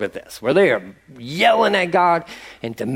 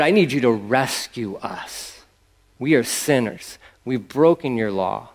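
sincere prayer; 3 semitones lower than usual. Shown as a demonstration. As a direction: pray it humbly, from the heart.

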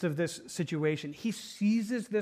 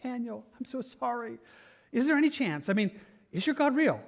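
lamenting voice; 4 semitones higher than usual. Acted. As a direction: plead in a higher, mock-mournful voice. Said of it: "he says it with a lamenting voice".

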